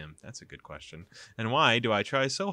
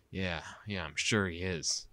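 sarcastic. Acted. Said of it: "replied in a sarcastic voice".

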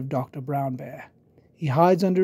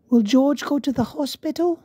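Peppa voice; 9 semitones higher than usual. Acted. Peppa voiced asking worried.

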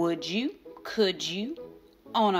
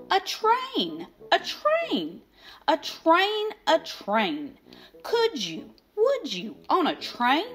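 high, pushy Sam voice, higher pitch; eager Sam; 6 semitones higher than usual. Acted. Sam pushing the grump to eat on a train, eager high voice. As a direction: chant it at him like an eager pest.

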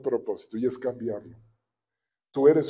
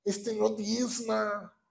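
inner grumble; 6 semitones higher, 6 dB quieter, much slower than usual. Retold or imitated. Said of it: "y yo por dentro le digo".

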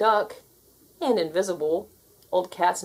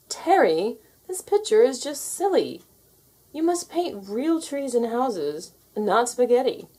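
higher, slow scolding teacher voice; stern teacher; 4 semitones higher than usual. Acted. Art teacher scolding Terry over his picture, stern. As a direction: lecture the child firmly.

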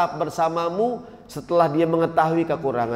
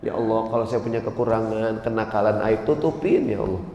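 humble personal prayer; 5 semitones lower, 3 dB quieter than usual. Acted.

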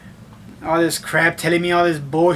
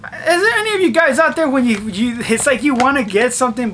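mock crying; 5 semitones higher than usual. Mock crying plea to viewers.

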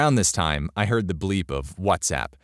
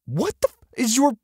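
high, loud outraged outburst; indignant, high-pitched telling-off; laying into her; 14 semitones higher, 5 dB louder than usual. A narrator's reading. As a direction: lay into them, pitch way up. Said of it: "and lay into her".

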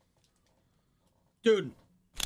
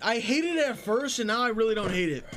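surprised; 5 semitones higher, 3 dB louder than usual. Real, not acted. Surprised at liking taste.

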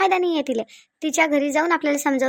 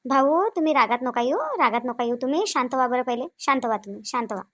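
calming; 4 semitones lower than usual. Acted. Neighbour asks angry husband to calm down, soothing. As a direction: talk him down gently, voice dropping.

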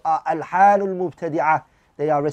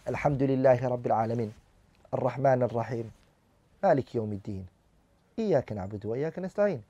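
fast, lower, careless Fatiha; careless recitation; 4 semitones lower, 5 dB quieter, much faster than usual. Shown as a demonstration. Teacher showing class how not to recite. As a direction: hurry through the verses without care. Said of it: "One should not read like that".

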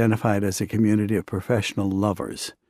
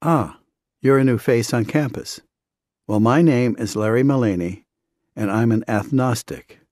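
lisping. Retold or imitated. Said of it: "his lisp evident".

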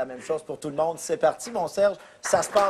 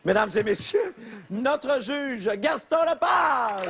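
high, drawn-out shout on the name; announcer's introduction; 7 semitones higher, slower than usual. Real, not acted. Host presenting the judge to the crowd, rousing announcer call. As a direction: build to a big, stretched-out name reveal.

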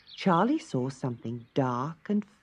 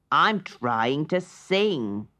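slow explaining; much slower than usual. Acted. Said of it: "explained Charlie".

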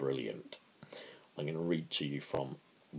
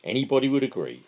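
sarcastic Philpot; 2 semitones higher, 5 dB louder than usual. Acted. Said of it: "said Philpot".

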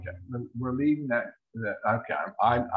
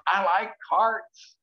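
partner's signal voiced; 7 semitones higher, 4 dB louder, much slower than usual. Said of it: "nine says".

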